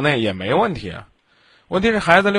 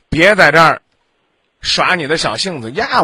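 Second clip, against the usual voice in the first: stern scolding; 3 dB louder than usual. Real, not acted. Host scolding loudly.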